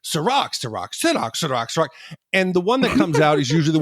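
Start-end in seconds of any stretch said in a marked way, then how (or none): 0.0-1.9 "Ciroc" repeated with shifting pronunciations; arguing pronunciations. Shown as a demonstration. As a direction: act out a brain arguing over "Ciroc". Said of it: "my brain starts arguing".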